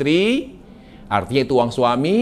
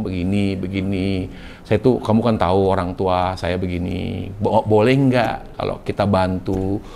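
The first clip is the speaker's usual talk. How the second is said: quiet, sweet persuasion; soft persuading; 5 semitones lower than usual. Retold or imitated. Wife persuading husband to help her parents, soft and sweet. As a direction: sweet-talk him gently. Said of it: "gitu ngomong".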